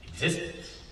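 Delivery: hushed breathy whisper; soft secret whisper; whispered word. Acted. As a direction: drop to a whisper for the big reveal. Dramatic reveal of Saul's fate.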